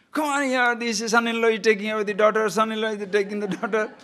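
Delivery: high, fast mock cry for help; old lady shouting. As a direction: rouse the village in mock alarm. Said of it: "this lady is shouting".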